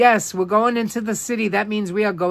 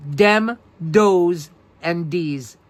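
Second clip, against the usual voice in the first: Brooklyn accent; much slower than usual. Shown as a demonstration. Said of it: "the language known as Brooklynese".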